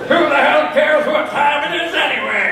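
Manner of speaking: exasperated. Acted. Old man outburst.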